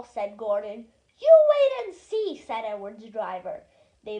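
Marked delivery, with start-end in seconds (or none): 1.2-2.4 confident. A narrator's reading. Driver confident reply.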